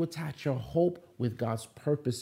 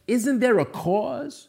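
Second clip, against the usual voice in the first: higher, louder, slow pleading question; David's indignant question; 9 semitones higher, 5 dB louder, slower than usual. Retold or imitated. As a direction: rise up, insist on the cause. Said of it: "And he says".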